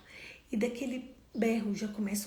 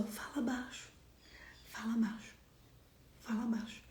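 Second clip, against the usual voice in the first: softly lowered voice, calm request; 6 dB quieter than usual. Shown as a demonstration. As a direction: ask for quiet in a softened voice. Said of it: "elas falam assim pra essa outra pessoa".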